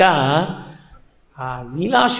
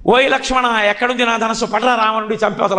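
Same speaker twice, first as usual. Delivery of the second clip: higher-pitched mock angry call; retold anger; 4 semitones higher than usual. Child Krishna as Rama calling Lakshmana, mock anger. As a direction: imitate a furious summons, only half shouted. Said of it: "పరమ కోపంతో".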